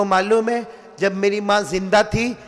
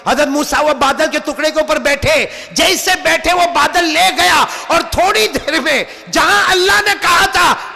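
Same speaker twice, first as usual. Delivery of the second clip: normal talking voice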